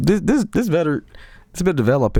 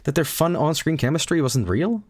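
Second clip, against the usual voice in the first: higher, disbelieving protest; mock heartbroken dismay; 7 semitones higher than usual. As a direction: act crushed and incredulous. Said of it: "I'm like".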